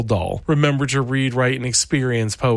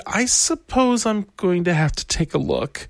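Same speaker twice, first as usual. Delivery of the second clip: a lightly voiced nervous dentist, raised; muttering dentist; 7 semitones higher than usual. A narrator's reading. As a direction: mutter it nervously, barely in character. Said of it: "He muttered".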